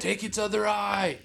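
high laughing call; laughing cheer. Real, not acted. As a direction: cheer them on while laughing.

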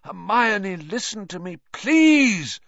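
high, pleading shout building to a cry. A narrator's reading. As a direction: shout over her, begging to be heard. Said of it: "Lupin shouted".

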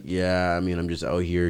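deadpan mock interviewee; monotone imitation. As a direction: answer with no energy, mimicking him. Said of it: "Monotone as hell".

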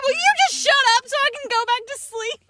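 high, scolding mock outburst; retold anger. Sleepy wife shushing husband, high mock irritation. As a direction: snap it in mock exasperation. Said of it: "getting more and more mad".

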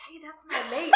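hammed-up shout of a claim; mock calling out. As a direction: butt in as an excited character. Acting Lucien's sudden interjection.

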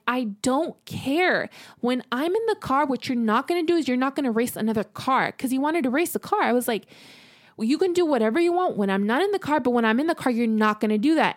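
mildly heated, insistent retort; retold firm telling-off. Girlfriend forbidding boyfriend to race with her aboard, firm telling-off. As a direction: lay down the law, slightly heated. Retold quarrel over racing in car.

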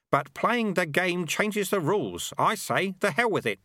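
put-on old sweeper Lutze. A narrator's reading. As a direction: tease him like a cheeky old master. Lutze voiced in story.

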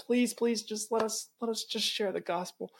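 pitiful pleading. Retold or imitated. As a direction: parody a timid believer pleading for permission. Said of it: "This is not just a pitiful".

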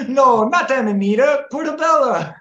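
high, loud mock correction. Mock Italian correcting someone.

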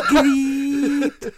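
very high, drawn-out gushing presenter; hammed-up squeaky TV host; Lorraine Kelly. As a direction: stretch it out in mock delight. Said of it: "Lorraine Kelly, hun, so tell me".

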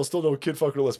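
usual speaking voice

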